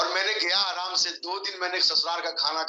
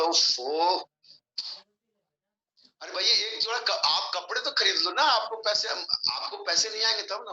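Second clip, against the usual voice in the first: angry retort; 4 semitones higher than usual. Retold or imitated. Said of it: "इतना गुस्सा आया".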